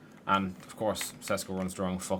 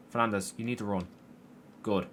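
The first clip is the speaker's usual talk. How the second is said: ordinary talk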